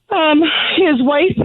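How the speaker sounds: fighting back tears; choked up. Real, not acted. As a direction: voice catching, slow with tears. Mother grieving her dead son.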